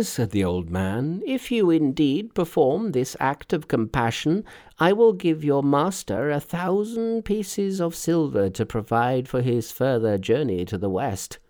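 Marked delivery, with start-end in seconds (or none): 1.2-11.4 put-on grateful old man. A narrator's reading. Old man promising silver for the rescue, earnestly grateful. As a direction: make a solemn promise, lightly voiced.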